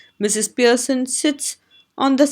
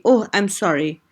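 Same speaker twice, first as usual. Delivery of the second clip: ordinary delivery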